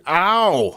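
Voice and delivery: sudden high loud yelp of pain; startled cry of pain; sharp ow. Real, not acted. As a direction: yelp as if pinched. Gets pinched mid-sentence.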